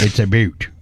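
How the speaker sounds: "boot" said like the word boot, for "about"; Canadian about. Shown as a demonstration. Host explaining the Canadian "about". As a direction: say "a boot" as in footwear. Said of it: "when they say about".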